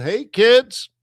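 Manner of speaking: high, loud retold shout; yelled. Trader retelling how he hailed his webinar class, yelled. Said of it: "that's where I yelled".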